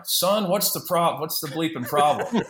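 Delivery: high, slow mock-gruff "Son, what's the problem"; gruff manager. Manager scolds his pitcher in a mock-gruff voice. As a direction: growl it out like an old-school skipper. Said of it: "he starts out with".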